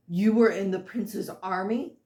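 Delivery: "You were in the prince's army" with weight on each word; pointed question, each word of "You were in the prince's army" stressed; every word emphasized. A narrator's reading. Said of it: "her emphasize every word".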